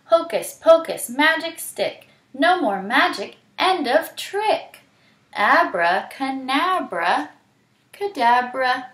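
high, loud incantation; Hyena's spell. Acted. Hyena stopping the river, high loud incantation. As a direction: chant the spell with force. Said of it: "Hyena leaned over and said".

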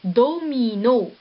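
"domino" said slowly, every syllable clear; word said slowly. Shown as a demonstration. Teacher joining syllables into a word, slowly. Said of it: "ça nous donne le mot".

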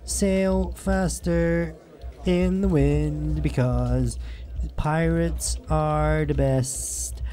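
slow, drawn-out pirate boast; lazy pirate swagger. Pretend. Pirate rant while drunk.

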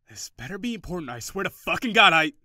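bursting with rage at a caller; angry snap. Acted. Irritated phone answer, snaps.

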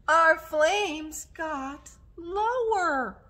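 high, slow mock surprise; playful oh-no voice; mock dismay. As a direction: gasp it out slowly for the kids.

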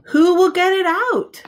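suspenseful question. Acted. Dramatic question in storybook.

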